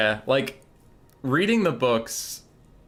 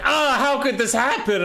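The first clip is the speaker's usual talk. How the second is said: mock dismay; 13 semitones higher, 5 dB louder than usual. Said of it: "And he's like".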